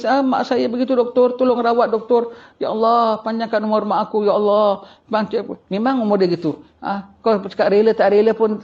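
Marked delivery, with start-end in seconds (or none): 0.0-5.6 mock tearful plea. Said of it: "Kau nangis".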